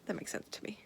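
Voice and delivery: soft unvoiced whisper. Real, not acted. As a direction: whisper so nobody wakes. Whispering at night.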